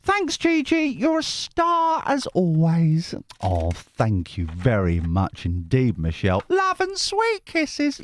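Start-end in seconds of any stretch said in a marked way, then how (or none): 0.0-3.1 very high, slow squeaky voice; high-pitched viewer voice. Retold or imitated. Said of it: "all the voices are me". 6.5-8.0 very high, slow squeaky voice; high-pitched viewer voice. Retold or imitated. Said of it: "you haven't read that bit".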